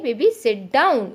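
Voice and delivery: slow, coaxing "baby sit down"; gentle instruction to baby. Shown as a demonstration. Mother gently telling her baby to sit down, slow and coaxing. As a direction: ease the words out slowly to a toddler. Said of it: "उस तरीके से हम बच्चे को बोल सकते हैं".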